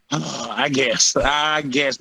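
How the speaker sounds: slow, deflated concession; grudging acceptance. Retold or imitated. Fighter retelling his reaction to the Apex news, grudging. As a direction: drag it out with mock reluctance.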